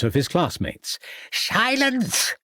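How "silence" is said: higher, sharp headmaster command; bellowed. A narrator's reading. Headmaster silencing laughing class, bellowed. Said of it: "bellowed Smeaton".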